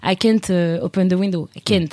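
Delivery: "can't" with an American short front vowel; lightly American-accented English. Retold or imitated. Student asking host family about a window, American accent. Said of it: "ou même américain, parce que moi, j'écoutais beaucoup de sons".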